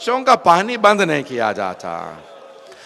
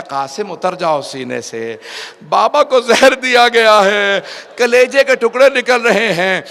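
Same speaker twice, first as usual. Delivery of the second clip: anguished retold cry; 3 semitones higher, 7 dB louder than usual. Farwa telling Qasim his father is poisoned, wailing loudly.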